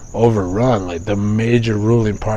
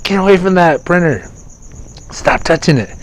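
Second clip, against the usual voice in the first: high, loud scolding shout; angry yell at son; 10 semitones higher, 6 dB louder than usual. Retold or imitated. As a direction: snap at the kid to get off the printer. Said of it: "I get mad at him".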